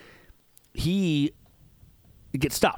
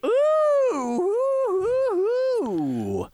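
excited squeal; much slower than usual. Real, not acted. Excited at GTA leak.

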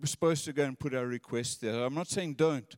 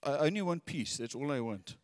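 mild mock fixation; 2 semitones lower, 5 dB quieter than usual. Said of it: "you're too".

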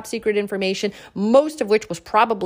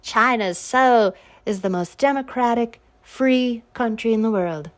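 mocking quote. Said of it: "she's out there like".

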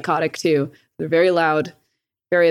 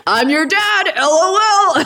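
higher, louder, smug joking dad voice; goofy dad; 10 semitones higher, 5 dB louder than usual. Retold or imitated. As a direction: play the dad gloating in all caps. Voicing her dad's Facebook posts.

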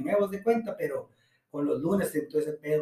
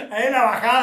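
on a roller coaster; 7 semitones higher, 12 dB louder, faster than usual. Pretend. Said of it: "primero te levantas, luego te bajas".

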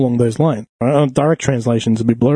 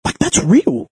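high, very slow, coaxing come-on voice; drawn-out sweet-talk like a sleazy recruiter luring a girl; sleazy street recruiter; 12 semitones higher, much slower than usual. Retold or imitated.

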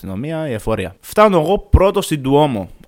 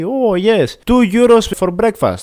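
higher, slower, sing-song clerk voice announcing the price; cheery hotel clerk; 9 semitones higher, 6 dB louder, slower than usual. Retold or imitated. Hotel clerk answering the narrator's question, higher and slower. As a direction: mimic the chirpy receptionist, drawing out the price.

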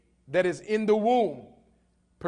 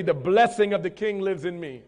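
with conviction. Shown as a demonstration. Preacher showing the congregation how to repeat the blessing, with conviction. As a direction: declare it with full conviction. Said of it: "you gotta say that with conviction".

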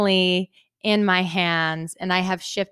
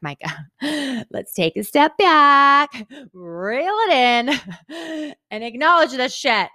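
higher, laughing, slowed right down; laughing self-talk; 6 semitones higher, slower than usual. Retold or imitated. Telling herself to stop and savor it, laughing. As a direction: coax yourself to slow down with a laugh. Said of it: "to be like".

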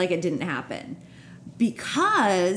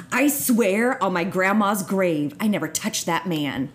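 over-specific denial. Shown as a demonstration. Host showing how a liar talks, over-specific denial. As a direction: swear it with deliberate emphasis. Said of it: "super specific denials".

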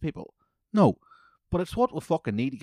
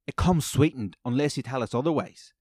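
mocking, higher and louder; snide barista mimic; 4 semitones higher, 7 dB louder than usual. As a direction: parrot her smug correction. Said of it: "the way she said these two things was so cunty".

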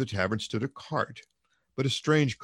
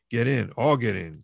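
a louder, rousing call; cried out; 2 semitones higher, 5 dB louder than usual. Acted. Mikolka rousing the crowd into the cart, loud cry. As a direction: urge everyone aboard, loud. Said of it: "cried Mikolka".

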